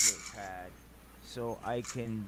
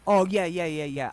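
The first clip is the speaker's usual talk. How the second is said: startled; 8 semitones higher, 12 dB louder than usual. Real, not acted. Startled reassurance.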